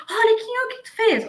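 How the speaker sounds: accusing boss. Retold or imitated. Boss confronting an employee about a mistake, high and accusing. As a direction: confront the worker who messed up. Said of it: "eu já chego ali".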